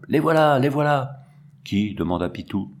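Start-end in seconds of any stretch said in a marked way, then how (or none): 0.1-1.2 breathless shout of alarm. A narrator's reading. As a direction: call out the warning in a panic. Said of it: "Il arriva en criant".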